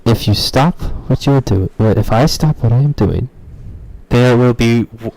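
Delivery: full-volume strained shout; all-out yelling redo; shouting as loud as possible. Acted. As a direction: bellow it at the top of your lungs. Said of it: "I can't do it any louder".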